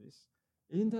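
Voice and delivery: ordinary talk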